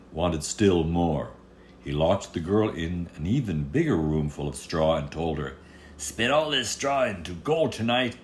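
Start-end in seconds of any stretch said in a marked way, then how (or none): 6.0-8.2 greedy king. Acted. King orders the girl.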